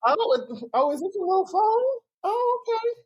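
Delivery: mock auntie belittling someone's stuff; condescending little. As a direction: sweetly belittle every little thing. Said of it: "anything little is rude".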